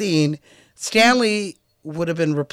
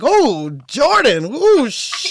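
high mock Pops; 5 semitones higher, 3 dB louder, much slower than usual. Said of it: "Pops would have been like".

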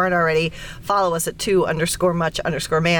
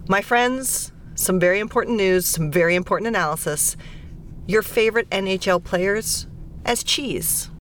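mock-grave game intro, spacing out the phrases; mock-solemn announcement.

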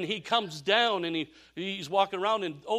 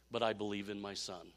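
quiet conviction; 7 semitones lower, 7 dB quieter than usual. Retold or imitated. Father's quiet heartfelt punchline.

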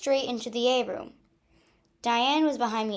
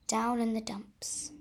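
dejected whisper; 6 dB quieter than usual. Acted.

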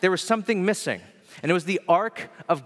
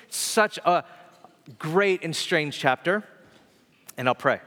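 nasal voice. Real, not acted. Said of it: "Sorry if I sound a little nasally".

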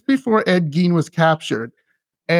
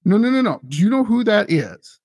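higher, urgent retold disbelief; alarmed correction; 5 semitones higher than usual. Staff setting the new nurse straight, urgent disbelief. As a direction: cut in urgently, as a quoted worried colleague.

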